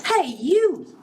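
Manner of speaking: high sharp hey you; high-pitched grouchy bug; calling out. A narrator's reading. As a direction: call out high and cocky. Grouchy ladybug calls out.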